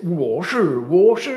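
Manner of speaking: loud, high "wo shi" as a count-off; loud class drill. Shown as a demonstration. Teacher leading the class in a loud chorus. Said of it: "On essaye?".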